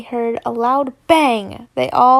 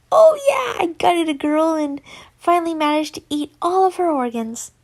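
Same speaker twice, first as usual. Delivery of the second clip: high excited shout; gleeful yell; 4 semitones higher than usual. Acted. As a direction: shout it with delight. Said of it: "E J yells".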